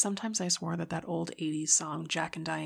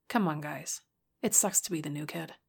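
cool. Acted. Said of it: "Bridget said coolly".

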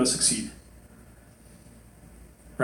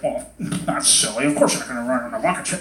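dismissive adult; 4 semitones lower than usual. Acted. Adult answering a child's wish, lightly mocked dismissiveness. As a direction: lower voice, lightly mocking grown-up. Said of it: "you know, the adult".

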